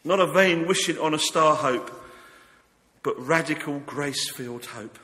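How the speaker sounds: fervent sermon delivery; preaching. Acted. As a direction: preach it with conviction. Preaching at full force.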